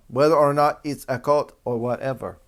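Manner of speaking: put-on emphatic, loud stab at a Jamaican accent; bad Jamaican accent. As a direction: force out a clumsy Jamaican accent. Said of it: "I'm gonna give up on that accent".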